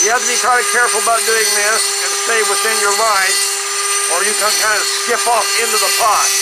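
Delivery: muffled speech through a mask; talking through a mask. Real, not acted. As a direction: speak muffled behind a mask. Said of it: "I hope you can understand me through this mask".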